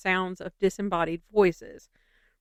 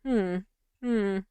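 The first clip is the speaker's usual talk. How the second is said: loud, incredulous complaint; baffled and fed up, half shouting; exasperated; 7 dB louder than usual. Retold or imitated. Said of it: "I was like".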